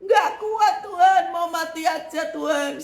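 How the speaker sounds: preacher mocking her old whining, high and laughing; imitating her old self. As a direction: mimic your past despairing self. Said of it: "Saya dulu begitu".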